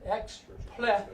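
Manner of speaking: X, ple as two separated syllables; syllable demonstration. Shown as a demonstration. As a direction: sound out X, then ple with a short vowel. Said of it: "that's a short sound".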